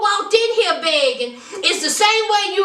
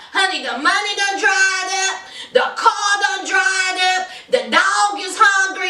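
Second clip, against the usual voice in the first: emphatic shout; 2 semitones higher than usual. Real, not acted.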